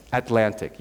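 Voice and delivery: "Atlantic" with the first T stopped, not released; unreleased T. Shown as a demonstration. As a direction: say "Atlantic" as At-lantic, no puff on the first T. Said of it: "You don't release the T".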